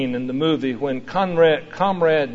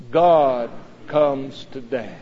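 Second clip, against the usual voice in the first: slow reverent refrain; slower than usual. Shown as a demonstration. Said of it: "say it".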